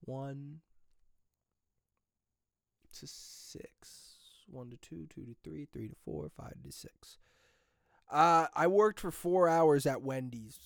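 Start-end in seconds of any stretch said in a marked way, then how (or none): 0.1-7.2 whispered list. Real, not acted. Listing hourly shift slots.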